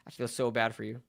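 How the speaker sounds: low, hushed mock sympathy; pitying. Streamer answering the fans he just mimicked, pitying. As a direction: sink low and quiet with deadpan pity.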